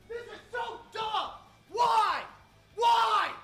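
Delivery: loud, high, furious yelling; yelling in frustration after a wipe; angry shout. Real, not acted. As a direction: shout it out at the whole team. Shouted rant at teammates.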